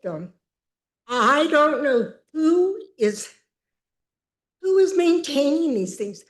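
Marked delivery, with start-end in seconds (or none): 1.1-6.2 higher, louder, voice catching with real tears; upset resident fighting back crying; real distress breaking through; close to tears. Real, not acted. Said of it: "I'm gonna try to contain myself".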